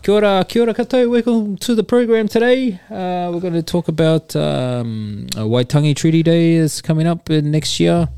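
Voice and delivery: high, fast Kiwi presenter voice; Kiwi presenter accent. Acted. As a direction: Kiwi accent, hosting a program. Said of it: "Kiwi accent that I put on".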